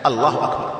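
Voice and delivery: الله أكبر low and easy, nothing stretched; unaffected takbir. Shown as a demonstration. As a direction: say الله أكبر without effort or lengthening. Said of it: "لا يتكلف".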